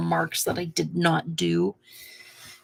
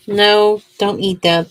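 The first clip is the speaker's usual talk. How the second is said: sharp no; 3 semitones higher, 9 dB louder than usual. Real, not acted. Scolding pet away from paint.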